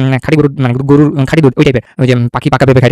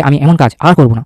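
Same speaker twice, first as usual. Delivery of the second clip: slow careful read. Shown as a demonstration. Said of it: "এই লাইনটা দেখতে হবে".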